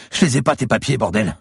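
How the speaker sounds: high, desperate denial; panicked cry. A narrator's reading. Curled-up captive to his attacker, panicked cry. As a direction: cry out while cowering on the floor. Cowering man repeats denial.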